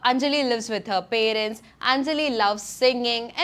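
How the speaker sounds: very slow, each sentence spelled out one by one; slow repetitive demo. Shown as a demonstration. Teacher demonstrating repetitive sentences about Anjali, very slowly. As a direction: read it out like a dull, slow list. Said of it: "ഇങ്ങനെ ഞാൻ".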